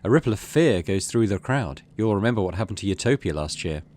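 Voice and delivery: steady storytelling read; story narration. Acted. Player reads the game's event aloud as story narration.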